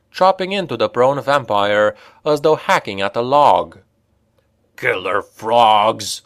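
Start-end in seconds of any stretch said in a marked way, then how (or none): 4.8-6.2 slow dwarf curse; cursing dwarf. Acted. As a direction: spit out the curse slowly. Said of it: "Olgrin cursed".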